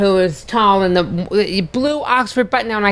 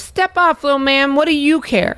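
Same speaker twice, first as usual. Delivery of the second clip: mock tough-guy threat; 6 semitones higher than usual. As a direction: toss it off like a bully waving away a shorter guy. Big guy threatening the smaller man.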